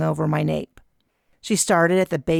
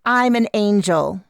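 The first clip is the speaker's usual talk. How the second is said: smirking; 4 semitones higher, 5 dB louder than usual. A narrator's reading. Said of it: "she smirked".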